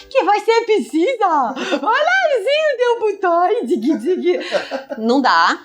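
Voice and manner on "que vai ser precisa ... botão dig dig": very high-pitched exaggerated cutesy babble; mock baby talk. Adult fussing over a baby as if irrational, mock baby talk. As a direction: coo nonsense at a baby, way up high. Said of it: "não significa tratar a criança como um ser absolutamente irracional".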